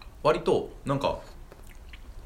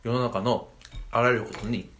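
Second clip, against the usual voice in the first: talking while chewing; mouth full. Real, not acted. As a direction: speak through a mouthful of food. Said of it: "食いながら喋んなよ".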